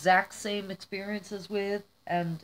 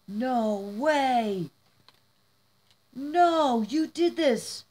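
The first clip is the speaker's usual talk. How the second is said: incredulous amazement; 3 semitones higher, much slower than usual. Real, not acted. Realising the friend made it herself, incredulous. Stunned by next gift.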